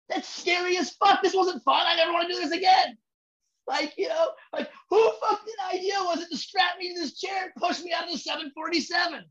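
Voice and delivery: half-joking panicked yell; mock terrified rider. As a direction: yell like a rider who hated the drop. Acting a terrified ride passenger.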